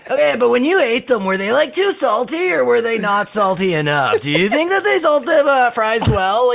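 Ryan Long interviewer. Pretend. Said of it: "do Ryan Long interviewing".

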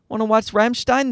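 a hint of an eager little boy; toddler asking. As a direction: lightly imitate a toddler's request. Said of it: "so Sam calls that the spikes".

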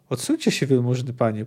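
mildly menacing warning, falling away; a touch of muted threat; ominous hollow voice. Acted. Executioner warns the official to step back, ominously. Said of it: "powiedział złowróżbnie głuchym głosem".

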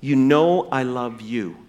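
low, slow humble admission; humbled. Retold or imitated. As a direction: answer slowly, without any boast. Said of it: "He's been humbled now".

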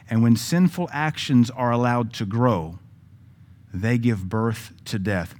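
slow, falling scripture cadence; paraphrased scripture. Shown as a demonstration. Preacher extending the verse for the congregation, slow and grave. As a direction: finish the verse slowly and gravely. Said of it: "we might insert this to continue the thought".

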